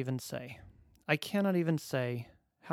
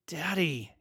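put-on child voice; 3 semitones higher than usual. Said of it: "he cried".

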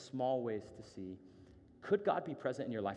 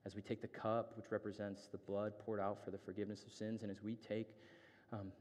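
earnest prayer; 2 semitones lower, 3 dB quieter than usual. Real, not acted. Leads the congregation in prayer.

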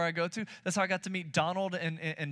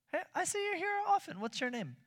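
eager high greeting; 13 semitones higher than usual. Shown as a demonstration. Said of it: "demo greeting".

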